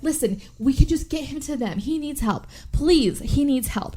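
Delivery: mildly hammed-up urgency, stretching the please; acted pleading. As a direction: beg for help, lightly acted. Acted plea for help.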